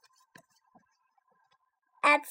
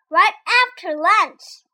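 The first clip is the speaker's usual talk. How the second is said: snake; 5 semitones higher, 6 dB louder, slower than usual. A narrator's reading. Snake's threat.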